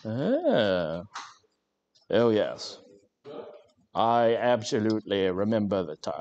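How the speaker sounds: lightly put-on upper-class English voice; hint of a toff recalling the family estate; mock posh English. Streamer spinning a fake posh childhood, lightly put-on posh English. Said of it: "but a super posh voice".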